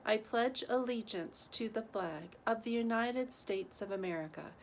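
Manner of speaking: steady, measured group-recital pace; solemn school pledge recital; pledge recitation. Real, not acted. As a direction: recite the pledge evenly, phrase by phrase.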